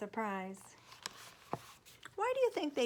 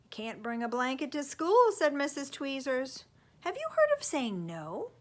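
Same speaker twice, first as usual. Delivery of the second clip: loud, high know-it-all; bossy neighbor; 5 semitones higher, 8 dB louder than usual. Acted. Neighbor lecturing the parents about school, bossy and loud. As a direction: lay down the law.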